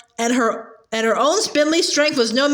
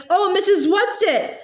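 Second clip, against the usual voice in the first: a higher, pleading call into the void; despairing call; 6 semitones higher than usual. Acted. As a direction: call out for her, losing hope. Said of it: "Meg called despairingly".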